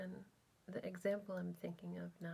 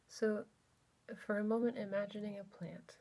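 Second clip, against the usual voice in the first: unhurried, exploratory guided body scan; guided meditation. Real, not acted. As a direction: gently lead listeners inward, leaving space between phrases.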